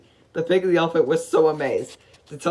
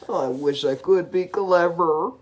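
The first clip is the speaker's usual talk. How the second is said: sighing wish; slower than usual. Acted. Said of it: "he sighed".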